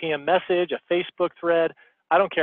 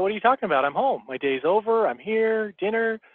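retold protest, pitched higher, rising in disbelief; indignant protest; 6 semitones higher than usual. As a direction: act baffled at being sent away, voice climbing. Husband protests wife's question.

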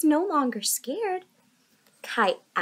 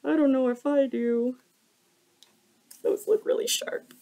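hesitant worried voice; unsure and a bit scared; nervous. Acted. Kai scared of crab claws.

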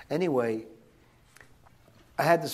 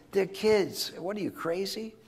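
incredulous; 8 semitones higher than usual. Retold or imitated. Retorting to the president.

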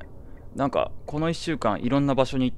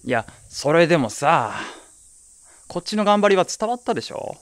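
higher, louder plea for credit; pleading whine; 6 semitones higher, 6 dB louder than usual. Acted. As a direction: beg to be understood, half whining. Pleads his effort counted. (甲高く訴える)

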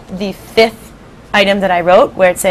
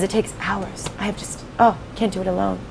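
softer mock-weary centipede; quoting centipede; 10 dB quieter than usual. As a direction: sigh it out as the tired centipede. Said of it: "He says".

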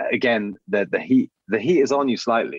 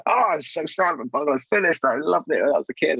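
imitating an assistant; 9 semitones higher than usual. Quoting director's assistant, high.

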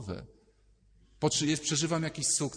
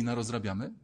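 put-on coaxing, rising little-boy question; little Piotrek coaxing; 3 semitones lower than usual. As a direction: tempt him to mischief like a kid. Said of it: "mały Piotrek i mówi".

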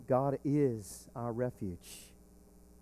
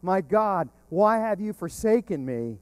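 crying out; 3 semitones higher, 5 dB louder than usual. Retold or imitated. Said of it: "crying out".

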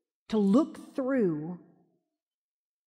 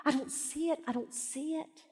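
frustrated complaint; 6 semitones higher, 5 dB quieter than usual. Retold or imitated. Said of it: "'cause I'll say".

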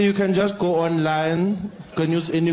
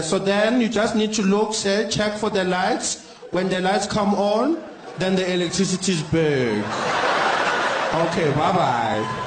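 slow, patient agent advice; slower than usual. Acted. Agent Doris patiently tells the caller to watch for the lights, slowly. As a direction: spell it out slowly and sweetly.

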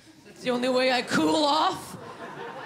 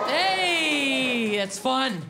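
Canadian woman voice; much slower than usual. Shown as a demonstration. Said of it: "this is what every woman from Canada sounds like".

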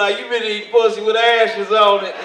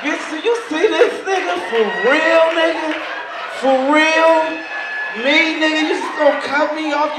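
worked-up retelling; 9 semitones higher, 4 dB louder than usual. Retold or imitated. Retold confrontation with other driver.

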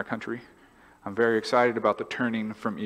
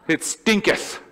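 higher, louder stinketh through a laugh; laughing King James; 6 semitones higher, 4 dB louder, slower than usual. Shown as a demonstration. Pastor hamming up old Bible English, laughing. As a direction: savour the old word stinketh with a chuckle. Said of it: "It's King Jamesian".

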